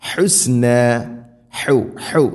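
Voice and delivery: ഹുസ്ന with a strong breathy h from mid-throat; throaty h. Shown as a demonstration. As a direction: push the h of ഹുസ്ന from the middle of the throat. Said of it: "തൊണ്ടയുടെ മധ്യഭാഗം".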